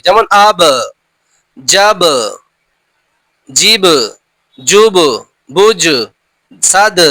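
আব, জাব, জিব, জুব with a bouncing echo on the final consonant; qalqala demo. Shown as a demonstration. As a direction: release the last letter with a small rebound. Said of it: "এগুলির মাখরাজে ধাক্কা লেগে আলাদা হয়ে যায়".

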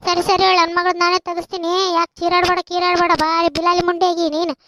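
loud scolding; angry shout. Acted. Mother telling off a loud neighbour, shouting angrily. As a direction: tell her off, loud and fed up.

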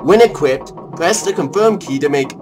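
deliberate, presentational game tutorial; play-by-play. Acted. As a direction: read the instructions out like a commentator. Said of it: "You sound like a play-by-play".

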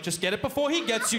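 hurry, find the switch; tense urging. Retold or imitated. Comic in dark room urges himself, mildly scared. Repeating plea while searching.

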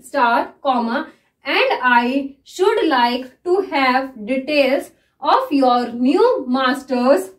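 very slow, word by word; dictating a shorthand passage slowly; slow dictation. Shown as a demonstration. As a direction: read it slowly so students can follow. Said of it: "मैं इसको किस तरह से read कर रही हूँ".

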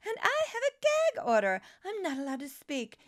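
high-pitched indignant question; indignant disbelief. Real, not acted. Candidate complaining of gag order, indignant disbelief. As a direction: pitch leaps way up, incredulous.

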